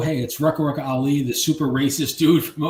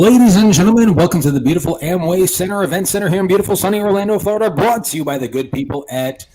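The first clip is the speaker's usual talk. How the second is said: loud arena announcer welcome; ring announcer; 4 semitones higher, 5 dB louder than usual. Pretend. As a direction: hype up the crowd like fight night. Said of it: "Oh, I got it right now. Ready?".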